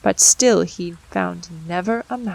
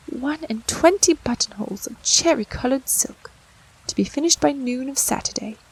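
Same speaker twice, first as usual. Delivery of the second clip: lamenting; 4 semitones higher than usual. Acted.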